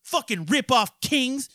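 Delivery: high, loud ranting tirade; furious shout. Real, not acted. Ranting at the postal service about a lost refund, a high loud furious shout. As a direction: yell the whole grievance at them.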